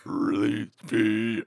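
slow, drawn-out creepy alien voice; alien impression. Shown as a demonstration. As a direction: stretch it out like a trapped alien. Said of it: "do your best 'release me' impression".

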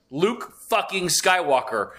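slow, drawn-out, reverent emphasis on each word; awed emphasis. Retold or imitated. Telling a friend the finale's big moment, slow awed emphasis. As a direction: savour the name like the best moment ever.

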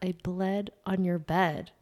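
soft, slow, plain confession; blunt and small. Retold or imitated. Answering boyfriend's question, soft slow admission. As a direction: say it quietly and slowly, no frills. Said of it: "literally, that's what came out".

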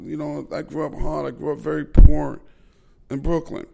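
high, loud lisping Tyson voice; Mike Tyson impression. Retelling Tyson's interview answer to Dre, high lisping impression. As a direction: pitch up and play the Brooklyn tough. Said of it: "And Mike is like".

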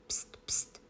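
whispered shushing; tichým tónem. A narrator's reading. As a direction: hush someone under your breath. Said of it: "řekl králík tichým, spěšným tónem". (šeptané syknutí)

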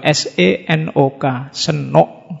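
slow letter-by-letter "S E N O K", then "senuk"; spelling "S E N O K" slowly, then "senuk"; spelled out Javanese-style. Shown as a demonstration. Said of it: "nulisnya ya kayak orang Jawa".

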